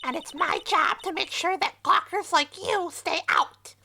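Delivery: put-on a high, snippy old guard; lightly voiced grumpy old woman; old lady voice. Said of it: "do you hate my old lady voice".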